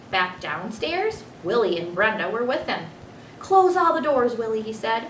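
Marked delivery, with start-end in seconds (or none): 3.4-4.6 louder, higher firm order to his son; firm command. Acted. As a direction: call it out firmly, a raised voice. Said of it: "his father repeated firmly".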